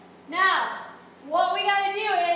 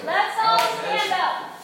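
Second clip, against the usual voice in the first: louder, higher, drawn-out rallying call; 5 semitones higher, 6 dB louder, slower than usual. Real, not acted. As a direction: call the whole class to their feet, stretching the words. Rallying a chattering class to stand.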